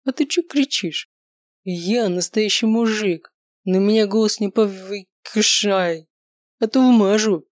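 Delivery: медленно, с нажимом, а в конце громче; угрожать, срываясь на крик; пьяная угроза. Acted. Пьяный угрожает Даше. (пьяный грозит ударить)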